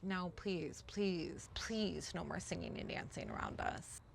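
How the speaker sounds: hushed, begging plant voice; pleading whisper. Retold or imitated. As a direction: whisper a desperate plea. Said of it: "They're like".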